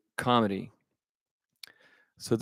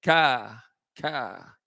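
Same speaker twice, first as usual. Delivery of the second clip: crow caw. Retold or imitated. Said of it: "looks down at all the traffic and goes".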